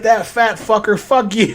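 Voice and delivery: high, loud imitation of an outraged son; screamed insult. Son cursing at the man recording him, screaming. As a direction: hurl the curse up high, mimicking his rant. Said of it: "screaming at his mom".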